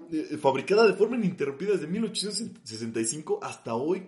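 "fabricada de forma ininterrumpida" rattled off quickly; fast. Real, not acted. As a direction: rush through "ininterrumpida desde mil ochocientos". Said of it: "O sea, literal".

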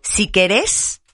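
querés stressed on its last syllable, ke-RÉS; stress on final E. Shown as a demonstration. Host quoting her mother's saying, querés stressed on the final E. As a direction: put the accent on the last E of querés. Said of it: "con acento en la E".

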